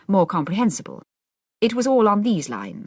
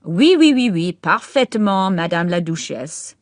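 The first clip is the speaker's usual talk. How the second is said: hasty agreement; 5 dB louder, slower than usual. A narrator's reading. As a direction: fawn over the Duchess. Boy hastily agreeing.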